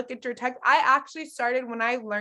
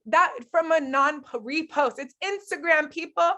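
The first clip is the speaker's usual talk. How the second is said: incredulous; 6 semitones higher, 3 dB louder than usual. Real, not acted.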